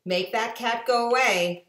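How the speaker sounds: high, loud, fussy protest; worried fish. Acted. Fish warning kids away from cat, high alarmed. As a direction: scold like a nervous nanny. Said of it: "But our fish said".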